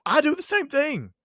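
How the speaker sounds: whispered, pitch high; conspiratorial whisper. Real, not acted. Teacher admitting the pool prank to colleague, whispered. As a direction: let them in on a secret.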